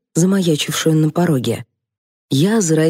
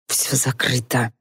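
softer hiss through the teeth; 4 semitones lower, 6 dB quieter than usual. A narrator's reading. Генри шипит на спорящих, тихо. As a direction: hiss it low and tense. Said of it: "прошипел Генри".

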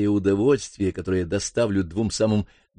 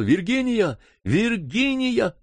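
higher, drawn-out call, slow; 11 semitones higher, slower than usual. Acted. Brother calls his sister from afar, higher drawn-out call. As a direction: call her name across the garden. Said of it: "Я закричал".

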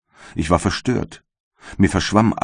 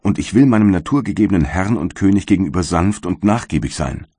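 a light voicing of the wretched creature; bitter creature; 2 semitones higher than usual. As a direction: plead and accuse at once, in the creature's role. Monster pleads with creator.

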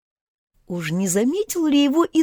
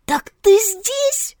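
choked-up, breaking voice; chokehold; 13 semitones higher, much slower than usual. Acted. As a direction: voice failing, slow. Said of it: "голос мне изменил".

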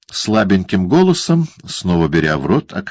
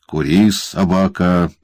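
mock-gentle warning; slower than usual. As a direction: say it sweetly to the boy. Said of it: "это мягкое предостережение".

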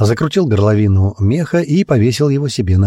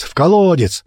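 even higher, more urgent shout; the mob's cry picked up, higher shout; louder crowd shout; 9 semitones higher than usual. Acted. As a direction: another voice joins, higher. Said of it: "раздались крики со всех сторон".

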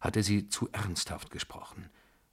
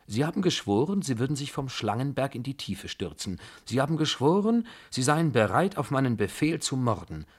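higher, emphatic taunting challenge; insistent reminder; 5 semitones higher than usual. Acted. She holds him to his sworn promise, insistent. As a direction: press the oath home forcefully.

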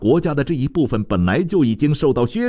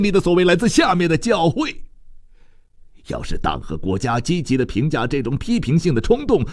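agitated parent; 7 semitones higher than usual. A narrator's reading. Parent recalls daughter joining church, agitated regret. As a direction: voice climbing high in complaint, then a sigh. Figure speaks in the story.

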